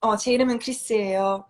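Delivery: 제 이름은 크리스예요 said very fast; teacher offering an alternative; polite casual model. Shown as a demonstration. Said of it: "or you can say".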